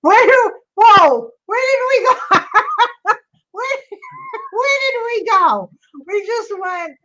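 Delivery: surprised. Real, not acted. Video call suddenly drops.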